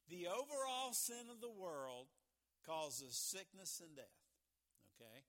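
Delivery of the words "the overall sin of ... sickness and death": loud, deliberate, with a pause midway; measured dictation in phrases; slow dictation. Real, not acted. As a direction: spell it out slowly for note-takers. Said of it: "So I'll talk slow".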